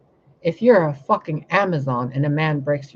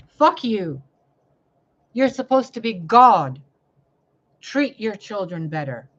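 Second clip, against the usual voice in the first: higher, louder accusing shout at God; angry rebuke; 5 semitones higher, 3 dB louder than usual. Real, not acted. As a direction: scold God with fury. Railing at God.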